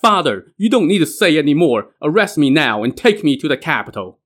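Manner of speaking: shouting. Acted. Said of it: "He shouted".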